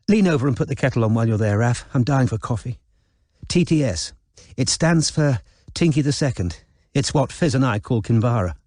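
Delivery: quick, breezy posh chatter; Izzy breezy. Acted. Izzy to her brother, gossiping about Kinvara, breezy. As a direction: gossip while bossing him about.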